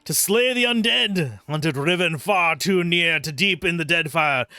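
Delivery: strained, theatrical Scottish brogue; Scottish accent. Acted. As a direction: declaim it as an anguished Scottish warrior. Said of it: "Scottish accent".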